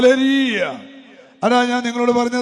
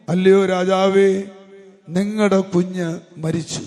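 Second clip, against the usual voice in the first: grave announcement; 4 semitones lower than usual. Retold or imitated. Messenger telling the king of his child's death, grave and low. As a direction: break it gently, pitched low.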